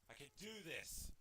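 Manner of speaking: very soft, low murmur; steady yourself under your breath; hushed pep talk to self; quiet self-encouragement. Real, not acted.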